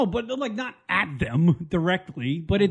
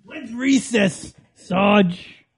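put-on childish whine; 3 semitones higher, much slower than usual. Mock recruit excuses.

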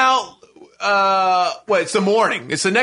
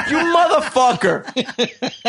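laughing curse; 4 semitones higher, slower than usual. Retold or imitated. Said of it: "I'm like".

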